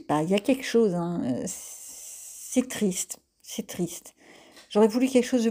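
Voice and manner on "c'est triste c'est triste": whispered lament. Real, not acted. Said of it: "whispered lament".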